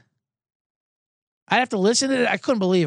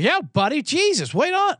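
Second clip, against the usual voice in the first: yelling after a car that is pulling away; calling out after a car; 11 semitones higher than usual. Retold or imitated. Flagging down departing Uber driver.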